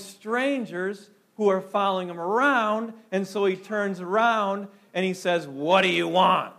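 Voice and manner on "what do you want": curt, impatient New York snap; rude New Yorker. Retold or imitated. Preacher voicing Jesus as a rude New Yorker, curt. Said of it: "Like a rude New Yorker would".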